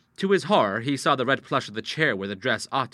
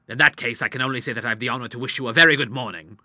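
stiff, quick formal dismissal; restrained anger under formal courtesy; very angry; 6 dB louder, faster than usual. Acted. Doctor bidding the widow good morning, stiffly angry. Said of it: "The doctor was very angry".

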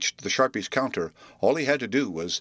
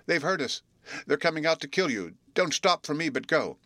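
higher, pleading in fear; piteous and frightened; 6 semitones higher than usual. A narrator's reading. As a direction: beg him to flee, voice strained high. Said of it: "exclaimed the lad piteously".

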